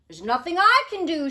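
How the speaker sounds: exasperated royal shout; king shouting. Acted. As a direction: snap back like an irritated king. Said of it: "shouted the king".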